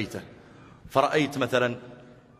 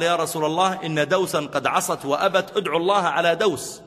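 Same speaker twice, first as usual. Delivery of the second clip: angry plea; 5 semitones higher, 3 dB louder than usual. Acted. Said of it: "أقبل غاضبا".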